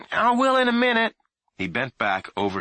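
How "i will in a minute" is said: loud high stalling reply; put-off shout. A narrator's reading. Boy stalling his mother from the attic, shouting. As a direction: hold her off with a shout.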